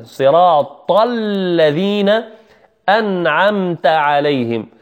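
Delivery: صراط الذين slowly, heavy ط straight into a long thin ل; heavy taa, light laam. Shown as a demonstration. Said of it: "طاء مفخمة ثم اللام". (نطق صراط الذين بطاء مفخمة ولام مرققة)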